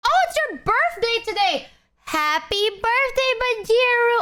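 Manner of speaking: excited. Real, not acted. Birthday greeting for a viewer.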